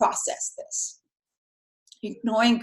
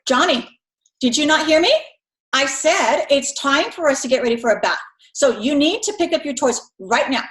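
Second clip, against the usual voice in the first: slightly raised, firmer mom voice; a touch higher and more insistent; voice a little higher; 3 semitones higher than usual. Retold or imitated. Mom repeating the bath order to Johnny, a bit higher. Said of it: "your voice is a little higher".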